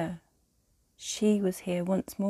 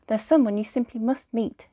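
excited mother calling out, higher and louder; raised, lifted voice of an eager mother; 4 semitones higher, 6 dB louder than usual. A narrator's reading. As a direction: call out brightly to get his attention. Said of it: "she called out".

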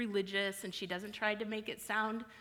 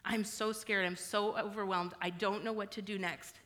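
tearful prayer. Shown as a demonstration. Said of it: "this is what it sounds like".

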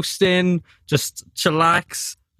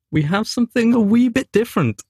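attempted Scottish accent; 8 semitones higher, faster than usual. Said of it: "how do you do Scottish accent?".

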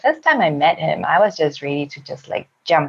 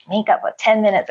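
incredulous inner echo; 5 semitones higher than usual. Retold or imitated. Woman's silent reaction to his suggestion, incredulous echo. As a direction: throw the proposal back in disbelief. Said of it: "In my mind, I'm like".

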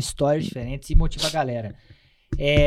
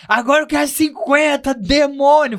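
mock drill sergeant; 8 semitones higher, slower than usual. Subtenente ordering the recruit, mock barked command. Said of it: "já fala assim".

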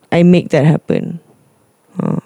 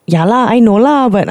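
conceding mum; 5 semitones higher than usual. Retold or imitated. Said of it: "dia cakap macam tu lah".

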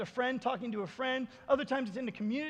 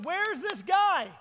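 high, slow, drawn-out question; mock questioning; 6 semitones higher, 4 dB louder, much slower than usual. Questioners asking the healed man, mock earnest. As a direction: stretch out a hammed-up silly question. Acting the crowd's foolish question.

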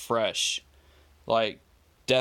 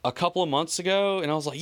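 normal talking voice

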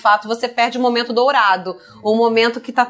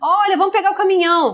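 put-on high, sing-song voice asking a toddler; parent to toddler; 8 semitones higher, faster than usual. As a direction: lift the voice to coax a little child.

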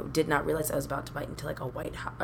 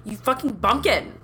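mock exasperation; 5 semitones higher, 4 dB louder, slower than usual. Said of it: "And I was like".

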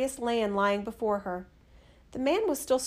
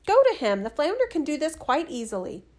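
higher and louder, ordering him off; bossy wife; 5 semitones higher, 4 dB louder than usual. Acted. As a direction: snap the order at the husband.

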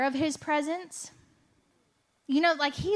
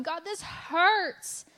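slow, higher, pained plea; retold pained cry; 5 semitones higher, much slower than usual. Retelling her crying prayer to Jesus, slow and pained. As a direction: ache it out slowly to God. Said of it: "full mess with Jesus going".

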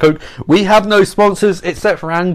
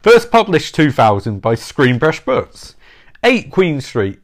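sultry narrator; slower than usual. Pretend. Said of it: "with my sultry, sultry voice".

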